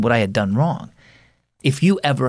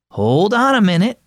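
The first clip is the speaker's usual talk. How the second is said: higher, firm call to wait; stopping him; 10 semitones higher, 4 dB louder than usual. Acted. Mother stopping her son at the door, higher and firm. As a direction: halt him on his way out. Mom stops son leaving.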